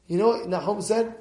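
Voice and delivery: ordinary talk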